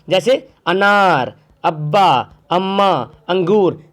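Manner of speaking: अनार अब्बा अम्मा अंगूर with a short unstretched a. Shown as a demonstration. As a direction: keep the first अ short. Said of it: "इसको खींच कर नहीं पढ़ रहे".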